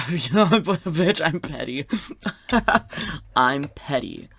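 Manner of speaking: loud, high, bursting into laughter; laughing sass. Real, not acted. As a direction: crack up while owning it sassily. Laughing reaction to the warning.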